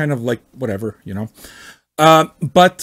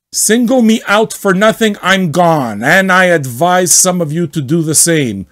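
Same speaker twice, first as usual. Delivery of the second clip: mock outrage; 3 semitones higher, 4 dB louder than usual. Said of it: "read as much as possible like him".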